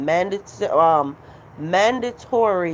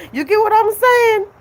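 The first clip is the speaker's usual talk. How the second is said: laughing; 12 semitones higher, 4 dB louder than usual. Real, not acted. Laughing at the absurdity.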